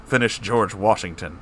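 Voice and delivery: ordinary delivery, nothing marked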